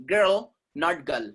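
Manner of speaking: put-on "Girl" with clear R, slow; slow contrast, R in "Girl" sounded; correct girl, slowly. Shown as a demonstration. Teacher to students: slow "Girl" with the R sounded. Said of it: "R will not be silent".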